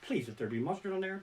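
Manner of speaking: soft desperate prayer under the breath; hushed anxious plea; pleading whisper. Retold or imitated. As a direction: beg quietly to himself. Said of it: "I'm standing there going".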